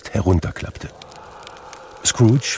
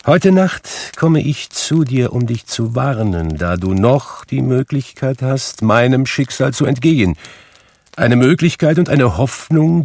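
high, urgent spectral warning; raised, insistent ghost voice; 6 semitones higher, 4 dB louder than usual. A narrator's reading. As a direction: announce it as a solemn spirit. Narrator voices Marley's ghost.

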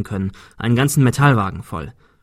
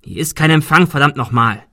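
frustrated curse; 3 semitones higher, 5 dB louder than usual. Acted. Adrian cursing at phone.

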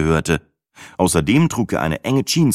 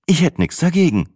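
higher, playful, amused; smirking; 10 semitones higher than usual. A narrator's reading. Sina teasing about the handsome guide, smirking. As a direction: say it with a grin. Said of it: "schmunzelte Sina".

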